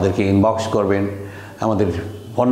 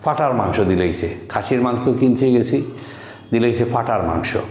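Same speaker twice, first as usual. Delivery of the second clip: casual Sylheti with f for p; Sylheti dialect. Shown as a demonstration. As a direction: demonstrate everyday Sylheti speech. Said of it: "তো সিলেটের মানুষ আমরা বলি".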